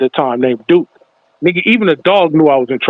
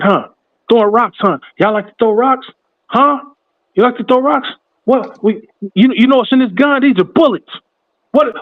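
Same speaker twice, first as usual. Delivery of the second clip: a mocking cop needling scared kids, pitched higher as he goes; taunting cop; 5 semitones higher than usual. The cop taunts the rock-throwing kids, mocking and higher. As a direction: lean in and taunt them like a bully cop.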